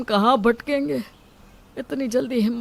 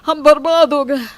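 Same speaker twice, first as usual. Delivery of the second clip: dramatic cry of ruin; 5 semitones higher, 7 dB louder than usual. Acted. Son claims shop ruined.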